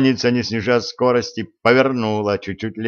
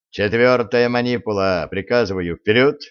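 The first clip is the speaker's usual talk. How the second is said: gruff barked parade orders. Acted. Commander orders a unit forward.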